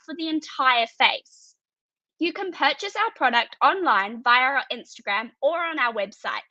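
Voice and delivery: rehearsed product presentation; prepared pitch. Acted. Student pitching teen sunscreen to online audience, rehearsed presentation. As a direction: deliver it like a memorised business pitch, evenly phrased.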